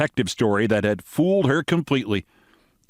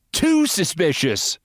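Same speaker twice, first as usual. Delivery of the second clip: American lady voice; 8 semitones higher than usual. Acted.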